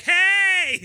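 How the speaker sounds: high, drawn imitation of a friend hollering hey; called-out greeting. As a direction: mimic a cheery shout from across the store. Retold friend's greeting in background.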